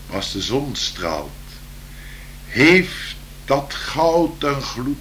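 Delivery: slow, lilting poem reading; poem recital. Acted.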